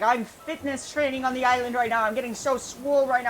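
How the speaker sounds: a hint of a bro jock voice; lightly voiced jock. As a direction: play it like a gym bro showing off. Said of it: "If he's a jock".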